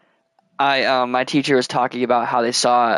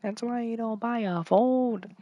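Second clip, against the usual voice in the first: high, softer Asian accent impression; 10 semitones higher, 8 dB quieter than usual. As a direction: repeat it in the put-on Asian accent. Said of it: "And I said in an Asian accent".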